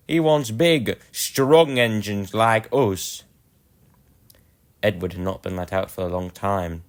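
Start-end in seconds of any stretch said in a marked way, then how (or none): 0.1-3.2 slow, louder boastful sneer; big engines taunting. Acted. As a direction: lord it over the little engine, drawn out. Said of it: "they said".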